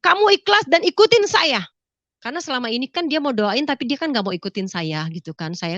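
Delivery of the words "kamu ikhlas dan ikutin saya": high-pitched, insistent phone command; pressing, raised-pitch retold command; urgent instruction. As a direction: give urgent orders down the phone.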